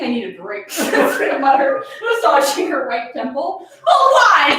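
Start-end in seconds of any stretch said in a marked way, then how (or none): 3.9-4.5 put-on loud child's protest; a child crying out, hurt, to her mother. Child protesting to her mother, loud and hurt.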